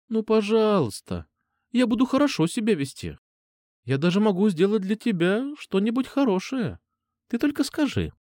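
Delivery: put-on high, coaxing little-girl plea, slowing on please; wheedling kitten. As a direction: purr like a fluffy kitten begging. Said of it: "превратившись в пушистого лисёнка или котёнка". (Настя ласково упрашивает Серёжу, как пушистый котёнок)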